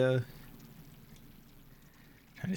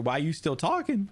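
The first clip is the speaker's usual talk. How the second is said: exasperated; 10 semitones higher than usual. Real, not acted. Yelling at game character.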